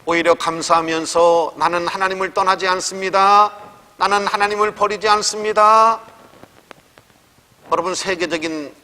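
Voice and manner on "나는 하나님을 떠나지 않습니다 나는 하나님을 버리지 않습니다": firm declaration. Retold or imitated. Widow's declaration of faith.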